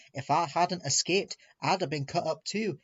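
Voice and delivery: mild fierce growl building at the end; hammed-up fierceness toward diesels. Douglas condemning the diesels to Percy, fiercely. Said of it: "he added fiercely".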